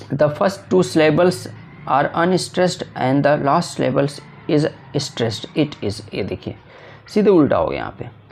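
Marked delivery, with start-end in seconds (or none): 0.1-6.0 reading the question out slowly and carefully. Shown as a demonstration. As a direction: dictate each English word. Teacher reads the MCQ aloud. (प्रश्न धीरे-धीरे पढ़कर सुनाना)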